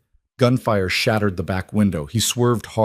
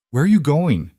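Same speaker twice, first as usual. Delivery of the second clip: demanding; 6 semitones higher than usual. A narrator's reading. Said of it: "Elena demanded".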